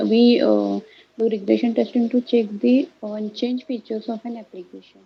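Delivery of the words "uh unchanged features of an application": voice coming and going. Real, not acted. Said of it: "your voice is coming and going".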